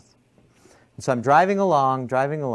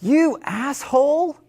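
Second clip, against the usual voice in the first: high, slow mock yell at me; angry yell; 4 dB louder, slower than usual. Driver in tiny car yelling at me, mock angry yell. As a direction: snarl the insult like a road-rager. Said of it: "he looked over at me and he goes".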